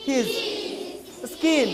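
"His" and "Skin" with a short i; brief, unstretched "His" and "Skin"; short vowel. Shown as a demonstration. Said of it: "একবারে শেষ".

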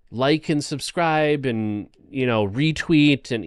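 mock a crypto giveaway hype-man; hyped scam promoter. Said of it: "somebody on social media is saying".

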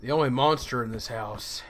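sinister villain voice. Acted. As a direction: drop into a creepy threat. Sinister dad reveal.

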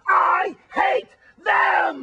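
slow, loud wailing cry. Acted. Wally wailing to Tina about the hated socks, slow and tearful. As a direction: wail it out, near tears.

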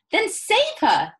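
high, loud, drawn-out plea; slow, high-pitched wail of an order; desperate cry. A narrator's reading. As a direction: cry out for someone to act. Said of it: "cried Missus Salt".

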